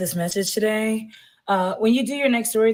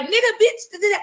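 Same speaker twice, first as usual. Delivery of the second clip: imitating her talk; 11 semitones higher, much faster than usual. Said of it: "She talked like".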